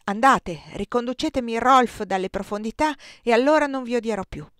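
stern. A narrator's reading. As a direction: throw the challenge at him coldly. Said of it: "continuò severamente". (severa e più forte, con tono di sfida)

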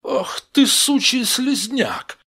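high, loud outraged cry; angry insult. Acted. Gang member answering a shove, outraged yell. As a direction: hurl it back, stretching the final word. Ответная брань в драке.

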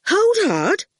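high, loud call to stop. Acted. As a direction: cut in firmly. Fifi stops them.

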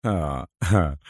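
low, soft sardonic "ha, ha"; quiet scornful chuckle; mocking laugh. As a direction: laugh drily in mockery. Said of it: "في تهكم".

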